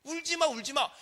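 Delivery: high-pitched imitated consolation, no force; hollow mock comforting; empty lip service. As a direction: say it as a mere courtesy. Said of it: "그냥 립서비스를 하는 거예요".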